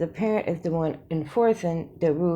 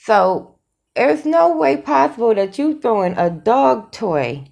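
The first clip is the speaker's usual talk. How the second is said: louder, emphatic disbelief; worked up; 5 dB louder than usual. Real, not acted. Vlogger disputing his dog toy story, loud and worked up. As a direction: punch out the argument, all worked up. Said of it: "I'm getting all worked up".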